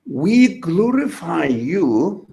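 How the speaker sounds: slow, deliberate reciting of a prayer; measured, solemn prayer read slowly; prayer recitation. Retold or imitated. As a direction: draw each word out like a quoted prayer. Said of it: "Can you say that again?".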